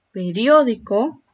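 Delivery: Periódico with a loud, held "rió"; stress on DIO. Shown as a demonstration. Teacher asks where the voice falls hardest, "ó" stressed in Periódico. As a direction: punch the accented "ó" in Periódico. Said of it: "¿Dónde recae la mayor fuerza de voz?".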